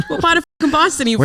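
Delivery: mock Boston accent. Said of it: "Boston too?".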